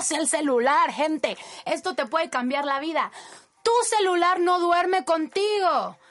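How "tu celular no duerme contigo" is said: enfático. Real, not acted. Advertencia enfática.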